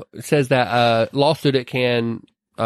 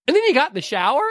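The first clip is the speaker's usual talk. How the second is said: high triumphant quote; 11 semitones higher, faster than usual. Retold or imitated. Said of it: "And then she goes".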